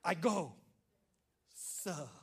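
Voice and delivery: polite, trailing off; respectful answer. Shown as a demonstration. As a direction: model the perfect answer. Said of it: "this is how you do an answer".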